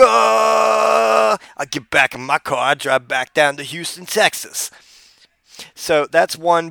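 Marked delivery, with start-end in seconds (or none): 0.0-4.7 a hint of Booker T telling a wild story; Booker T impression. Comedian impersonating Booker T telling a tall tale, lightly voiced. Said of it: "I'm gonna do my Booker T impression".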